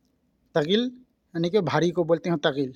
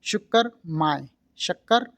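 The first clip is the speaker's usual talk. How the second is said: slow teaching demo. Shown as a demonstration. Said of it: "इसको Arabic बोलेंगे".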